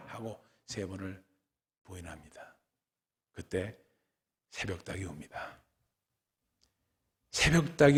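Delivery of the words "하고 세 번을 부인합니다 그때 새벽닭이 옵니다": barely voiced, with long pauses; hushed storytelling. Real, not acted. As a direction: drop almost to a whisper for the sad moment. Hushed telling of the denial.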